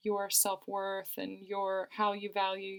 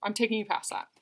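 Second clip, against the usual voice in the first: fired up; 4 dB louder, faster than usual. Retold or imitated. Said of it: "He's getting fired up".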